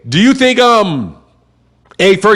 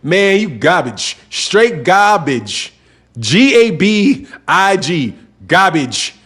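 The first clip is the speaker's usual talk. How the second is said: put-on slow, dragged-out Chicago accent; slower than usual. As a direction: spell it out slowly, Chicago street accent. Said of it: "I said it like the, the cats in Chicago said".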